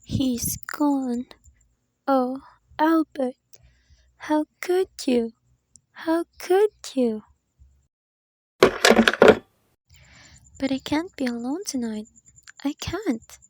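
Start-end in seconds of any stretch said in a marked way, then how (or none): 2.0-13.4 slow, pleading grief; anguished lament. Acted. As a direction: ask it of him in despair. Lament for absent husband.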